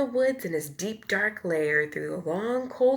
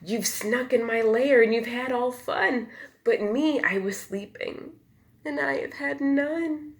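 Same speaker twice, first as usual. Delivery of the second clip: whimpering complaint; 5 semitones higher than usual. Acted. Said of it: "He whimpers and he moans".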